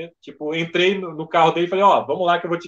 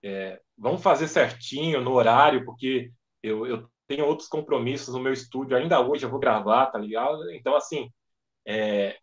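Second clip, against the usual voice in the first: imitated Wendel; 5 semitones lower, 3 dB quieter than usual. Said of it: "E aí ele conversando comigo".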